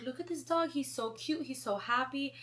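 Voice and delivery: high gushing mom; thrilled mother pointing out a cute dog; excited mom. Retold or imitated. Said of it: "my mom was like".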